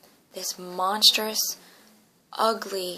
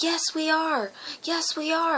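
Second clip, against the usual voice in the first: high, insistent raised cry; retold screaming; 8 semitones higher, 4 dB louder than usual. Child answering dad who says they won't make it, screaming. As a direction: yell it back higher and louder, refusing to give up. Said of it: "I just kept screaming that".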